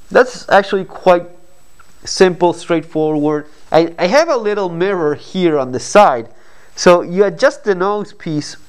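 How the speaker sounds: muffled behind fabric mask; speaking with covered mouth; through a face mask. Real, not acted. Seen 1: Black fabric mask covers mouth and nose throughout; unmasked in references.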